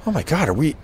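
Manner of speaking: retold outrage rising to a high pitch; getting madder. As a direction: build from disbelief to indignation. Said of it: "I'm getting madder and madder".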